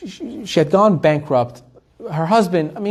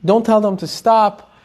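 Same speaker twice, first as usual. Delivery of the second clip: a little higher, lightly pleading; a touch of pleading, higher; mild pleading; 4 semitones higher than usual. Retold or imitated. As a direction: retell her begging the rabbi, gently. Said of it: "she starts pleading with the Rosh Yeshiva".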